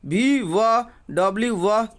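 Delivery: name each letter, then give the sound व; "डब्ल्यू" followed by a separate, clear व; letter-sound drill. Shown as a demonstration. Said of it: "ये दोनों का जो है व होता है". (अक्षर के नाम के बाद व की ध्वनि)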